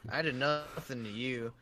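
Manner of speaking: Western sheriff voice. Shown as a demonstration. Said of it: "What, what voice was I doing?".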